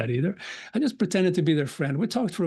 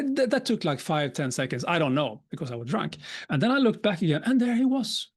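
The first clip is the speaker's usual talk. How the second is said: ordinary talk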